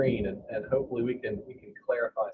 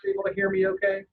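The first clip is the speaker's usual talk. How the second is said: muffled, hollow, like inside a barrel; 6 semitones higher, much faster than usual. Real, not acted. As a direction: voice through a bad call line. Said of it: "it sounds like you're in a barrel".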